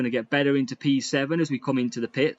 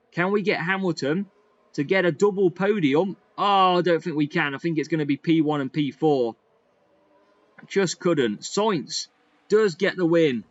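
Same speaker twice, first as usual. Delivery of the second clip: raised, lively race calling; excited commentary; 4 semitones higher than usual. Real, not acted.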